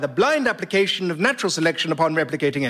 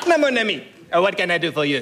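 theatrical French Voltaire; French accent; 2 semitones lower, faster than usual. Acted. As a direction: play Voltaire in hammy French. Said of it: "in outrageous French accent".

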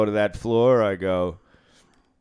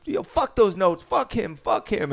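a hammed-up angry outburst, much higher; mock angry rant; 11 semitones higher, 3 dB louder than usual. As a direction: spit out the repeated curses like a sore gambler. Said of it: "he goes".

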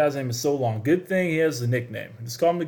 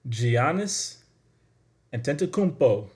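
name rolled out with a put-on Spanish accent. Shown as a demonstration. Host teaching listeners a player's name, in a Spanish accent. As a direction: sound it out with a Spanish lilt. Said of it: "putting, like, a Spanish accent on it".

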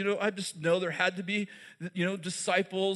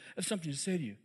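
hushed Jesus; 4 semitones lower, 7 dB quieter, much faster than usual. Retold or imitated. Jesus speaking softly to Simon, hushed and intimate. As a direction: lower and softer, drawn in close. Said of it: "he says to Simon".

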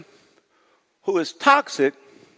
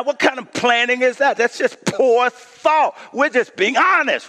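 self-righteous, pitched-up defense; defensive complainers; 5 semitones higher than usual. Acted. Complainers defending themselves against Moses, self-righteous. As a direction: insist you're only being helpful. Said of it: "they would say".

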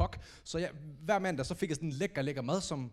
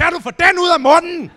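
high, very loud furious shout; shouting the flatmate's line back in revenge; revenge yell; 13 semitones higher, 16 dB louder than usual. Retold or imitated. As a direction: burst in and scream it back. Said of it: "brassede ind og råbte".

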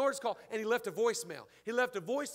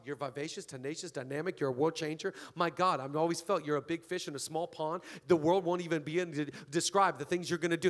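lightly imitated encourager in a lowered voice; low-pitched, running on through the compliments; Pastor Jude; 5 semitones lower than usual. Friend praising the birthday woman by voicemail, lightly imitated in a low voice. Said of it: "This is how he talks".

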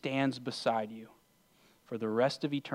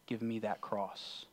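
retold whisper; 7 dB quieter, slower than usual. Jesus speaks into your ear at the cross, retold whisper. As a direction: say it softly and slowly, still voiced. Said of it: "he whispers in your ear".

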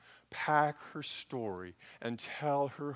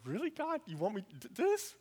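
much higher, softer incredulous plea to God; scared disbelief; 8 semitones higher, 4 dB quieter than usual. Retold or imitated. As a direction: ask God if He's serious, half afraid. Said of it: "I was scared".

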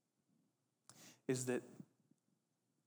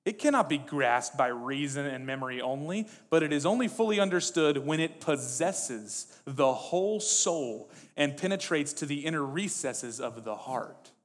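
louder, declaiming sermon quote; emphatic quote reading; 2 semitones higher, 8 dB louder than usual. Acted. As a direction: read it out with rising conviction.

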